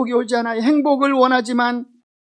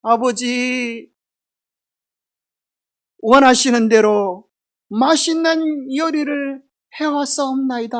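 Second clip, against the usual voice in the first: slow, lightly put-on older brother voice; mimicking his brother; slower than usual. Jacob to his father, slowly faking his brother's voice. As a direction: Jacob faking Esau, drawn out. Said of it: "형님 목소리를 내면서".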